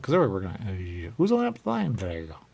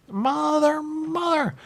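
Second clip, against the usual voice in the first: high mock cry; 10 dB louder, much slower than usual. Acted cry in dog scene.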